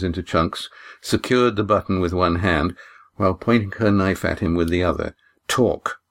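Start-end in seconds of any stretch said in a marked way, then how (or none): 5.5-6.0 firm. Acted. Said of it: "she said firmly".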